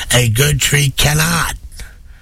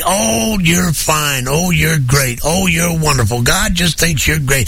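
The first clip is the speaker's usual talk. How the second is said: higher, syrupy flattering voice, lightly put on; mock false prophet; 6 semitones higher than usual. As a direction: mimic a smooth preacher buttering up his flock. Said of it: "a false prophet is gonna be".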